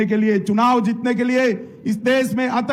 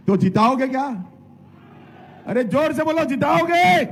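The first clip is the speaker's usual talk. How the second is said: rally crowd call; 4 semitones higher than usual. Real, not acted. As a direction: whip the crowd up. Demands crowd shout louder.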